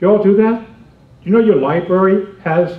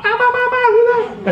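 put-on high startled kid cries; mock kid gasps. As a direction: squeal like amazed kids. Kids reacting to magic trick.

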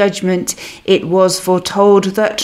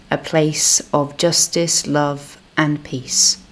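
measured, reverent prayer voice; spoken prayer. Acted. Minister opening the service prays to God, reverent. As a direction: address God in earnest prayer.

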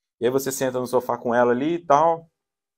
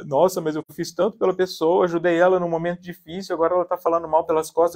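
slightly raised, lightly whiny grievance; mock wounded tone; 3 semitones higher than usual. Person complaining of betrayal after helping a friend, mock wounded. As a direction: imitate someone playing the hurt victim. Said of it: "Eu mudo até o tom, até pra imitar isso".

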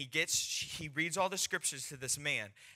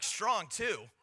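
acted disbelief; 6 semitones higher than usual. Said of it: "I'm like".

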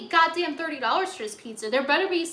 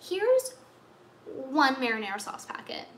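mock cashier. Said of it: "And they're like".

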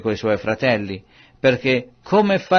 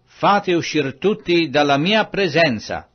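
mildly raised, higher-pitched command; crying out; 5 semitones higher than usual. Acted. Joseph ordering all bystanders out, a mild raised cry. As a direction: lift the voice to clear the room, without a full shout. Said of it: "e gridò".

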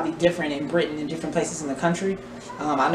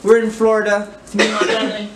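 put-on British accent; 3 semitones higher than usual. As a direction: greet the viewers in a mock British accent. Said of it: "I'm using a British accent".

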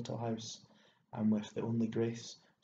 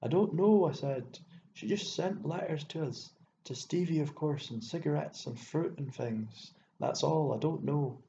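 higher, pressured protest; high-pitched, hurried-sounding defensive answer; flustered reply; 5 semitones higher, 4 dB louder than usual. A narrator's reading. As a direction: blurt it out under pressure. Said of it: "I could not refuse to reply".

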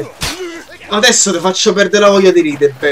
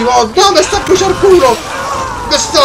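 high-pitched burst of complaint; pained outburst; 7 semitones higher than usual. Real, not acted. Gamer set on fire in the game, yelping. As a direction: yelp the question much higher.

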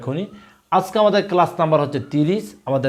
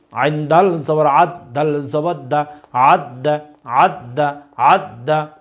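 teacher's recitation, letter by letter; slow spelling drill; much slower than usual. Shown as a demonstration. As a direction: spell each letter slowly, then say the word thrice. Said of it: "আপনারা আমাদের সাথে repeat করার চেষ্টা করুন". (ধীরে বানান করে তিনবার উচ্চারণ)

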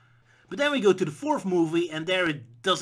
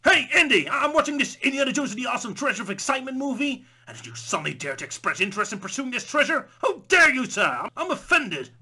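much higher and louder, shrill outrage; mock-offended audience member; 9 semitones higher, 7 dB louder than usual. Audience member scolding Indy, hammed-up offense. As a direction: wail like an offended prude. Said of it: "I'm in the audience and I'm all like".

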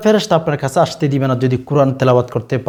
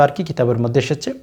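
unvoiced, breathy aside under the breath; whispered aside; 5 dB quieter than usual. Real, not acted. (ফিসফিস করে পাশ কথা)

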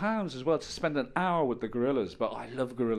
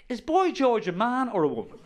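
granddad voice; 11 semitones higher, 6 dB louder than usual. Retold or imitated. Granddad's last words, mock voice.

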